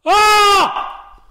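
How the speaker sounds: high, loud scream of shock; re-enacted yell of sudden panic. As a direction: let out a piercing yell. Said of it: "I let out a yell".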